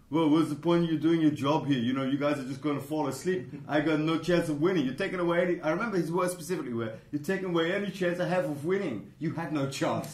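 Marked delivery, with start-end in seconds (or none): 0.1-5.6 imitated whine, slightly raised; hammed-up grumbling imitation; mock moaning. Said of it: "and you kept moaning". 7.1-9.1 higher-pitched imitated whine; hammed-up complaint, pitched up; mock moaning.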